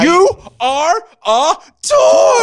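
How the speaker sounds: loud, high, drawn-out yell; exasperated movie shout. Acted. Host quoting Woody yelling at Buzz, exasperated shout. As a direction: shout it word by word, stretching the last. Quotes Toy Story outburst.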